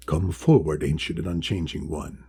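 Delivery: low, kindly voice of an ancient sea creature; deep, friendly great wise one. Acted. Great wise one calling Polly forward, low and friendly. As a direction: call out warmly from the deep. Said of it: "deep and loud but friendly sounding".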